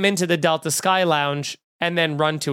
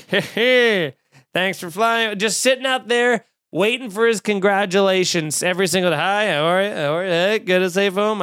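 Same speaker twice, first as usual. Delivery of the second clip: a lightly voiced self-satisfied pilot; hammed-up chummy captain; mock cheesy pilot. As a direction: greet passengers as if fishing for praise. Imitating the pilot's greeting.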